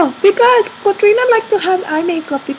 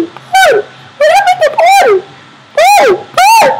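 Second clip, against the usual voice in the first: laughing calls; 9 semitones higher, 4 dB louder than usual. Real, not acted. Laughing at mirror effect.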